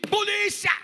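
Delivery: high, loud cry for help; calling out. Retold or imitated. Paul on the ship shouting for the soldiers, a high, loud cry. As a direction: yell for the guards.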